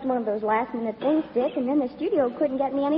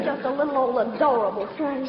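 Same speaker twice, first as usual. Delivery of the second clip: flirty fake Southern belle accent; southern belle act; 3 semitones lower than usual. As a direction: coo at him like a Southern belle. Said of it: "my little old southern routine".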